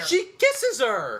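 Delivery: very slow emphatic insistence; slow emphasis. Real, not acted. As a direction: stretch each word to insist.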